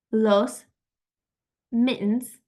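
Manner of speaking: "mittens" said with an English accent. Shown as a demonstration. Teacher showing students a shared word, in English accent. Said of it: "try it in your English accent".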